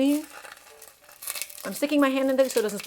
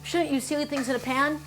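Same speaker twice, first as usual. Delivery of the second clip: mock whining viewer; 3 semitones higher than usual. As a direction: whine like a fussy viewer picking at the method. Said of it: "you all might be complaining and whining".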